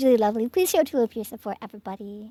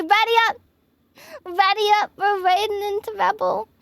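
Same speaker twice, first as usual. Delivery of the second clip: rallying call; 6 semitones higher than usual. Real, not acted. Rallying chat for a raid.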